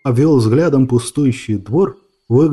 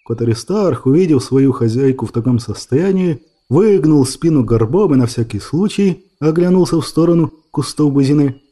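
usual speaking voice

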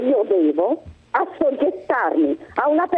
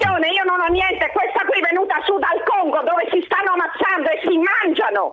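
angry rant; 4 semitones higher than usual. Real, not acted. Furious caller ranting.

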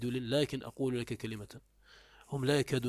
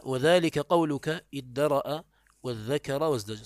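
slow, louder recital of the examples; reading the text aloud; 5 dB louder, slower than usual. Shown as a demonstration. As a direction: read the examples slowly and clearly. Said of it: "قال". (قراءة الأمثلة ببطء وبصوت أعلى)

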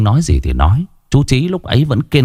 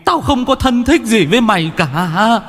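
hardened denial; 7 semitones higher than usual. A narrator's reading. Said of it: "đanh mặt lại".

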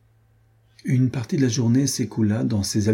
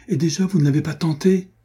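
indignant reproach; 8 semitones higher than usual. A narrator's reading. Adrienne reproaches the baron.

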